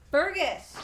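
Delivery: loud, high scolding shout; yelling at cat. Real, not acted. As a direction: yell the cat's name to stop it. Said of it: "me just yelling at a cat".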